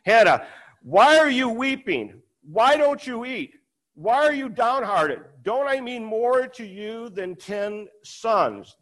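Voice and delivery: a lightly voiced husband asking why she weeps; clueless husband. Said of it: "Her husband Elkanah would say to her".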